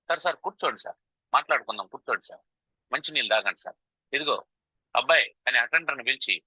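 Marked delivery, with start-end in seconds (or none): 0.1-5.3 calm, not shouting. Acted. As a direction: gently settle down an angry visitor. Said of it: "అరుస్తున్నాడని వీడు కూడా అరవకూడదు". (అరవకుండా శాంతపరుస్తూ)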